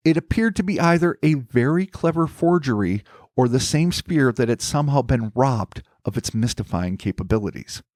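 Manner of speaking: deliberate storyteller with emphatic list-making; scripted narration. Acted. Host setting out theories about the replaced orb, scripted narration. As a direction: lay out each theory with formal, measured emphasis.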